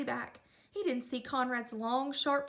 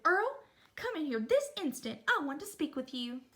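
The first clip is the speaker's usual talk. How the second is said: stern mother; 2 semitones higher than usual. Acted. Mother calls Earl in, stern.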